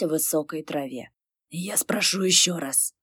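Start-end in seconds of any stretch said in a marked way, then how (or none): 1.5-2.9 bored. A narrator's reading. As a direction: ask it like you're already tired. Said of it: "скучающе проговорил демон".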